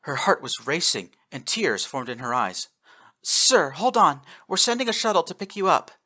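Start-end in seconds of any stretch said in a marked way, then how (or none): 3.2-5.9 high, louder urgent plea; tearful urgency. A narrator's reading. Officer to dying admiral, urgent tearful plea. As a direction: hold him on the line.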